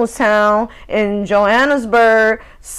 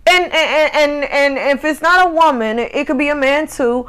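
laughing; 2 semitones higher than usual. Real, not acted. Laughing through a rant.

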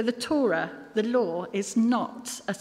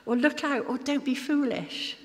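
urgent cry to someone stepping into danger; sharp warning; 6 semitones higher than usual. Shown as a demonstration. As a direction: snap out a warning to stop someone. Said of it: "It comes out as".

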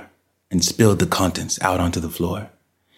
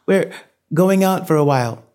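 high-pitched, uneasy mother's voice; wavering voice; 11 semitones higher than usual. A narrator's reading. Mother tells the twins they are going out, wavering. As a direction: pitch it well up and let it waver. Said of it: "Janet called in a wavering voice".

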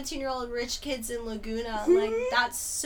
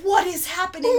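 louder, higher disbelief; mock shock; 7 semitones higher, 8 dB louder than usual. Viewer reacting to a reality show, mock shock. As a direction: play up the baffled viewer.

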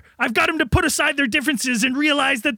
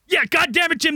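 excited shout; 3 semitones higher than usual. Acted.

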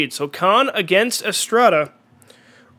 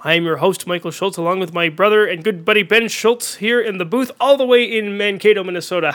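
sports announcer; 2 semitones higher, 3 dB louder than usual. Acted. Opens mock baseball broadcast.

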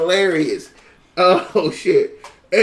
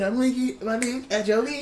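slick lip-licking line; 2 semitones higher, 7 dB quieter than usual. Shown as a demonstration. Friend repeats his own joke in a slick put-on voice. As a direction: lean into the line like a smooth rapper. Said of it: "I said".

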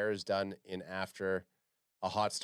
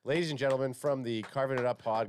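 ringmaster. Pretend. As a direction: introduce the act to the crowd. Introducing guest like a ringmaster.

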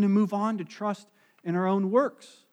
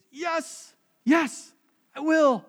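high, eager acceptance; excited yes; 10 semitones higher, 4 dB louder, much slower than usual. Retold or imitated. Bride-to-be accepts the kneeling groom, high and excited. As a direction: burst out with joy at the proposal. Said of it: "And she's excited".

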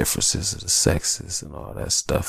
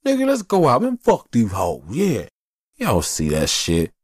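hyped buddy; 4 semitones higher than usual. Retold or imitated. Acting a hyped buddy at a club.

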